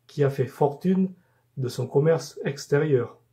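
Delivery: measured poem reading, phrase by phrase with pauses; poem recitation. Acted. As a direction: recite it in even, carefully articulated cadences. Récite son poème sur Bourges. (récitation de poème, posée et rythmée)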